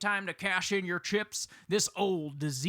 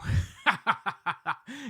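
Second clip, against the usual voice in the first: a gloating "ha-ha-ha"; mocking laugh; 4 semitones higher than usual. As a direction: cackle at your own insult. Laughs at his own insult.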